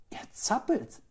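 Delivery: high exclamation from the woman; high-pitched cry; called out. A narrator's reading. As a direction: call out in surprise, high. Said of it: "rief die Frau".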